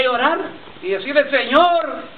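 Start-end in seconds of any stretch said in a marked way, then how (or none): 1.3-2.0 higher, pleading cry to the Lord, lightly reenacted; a hint of the sobbing prayer from that day; retold tearful plea. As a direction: relive the moment you broke down begging. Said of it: "llorando a gritos".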